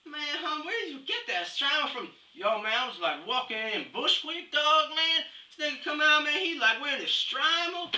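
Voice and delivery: high-pitched street-slang impression; mock Strama guy. Strama guy bragging to his bro about headgear, high put-on voice. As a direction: play a hammed-up slang-talking dude. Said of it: "like the Escalade of the Stramas".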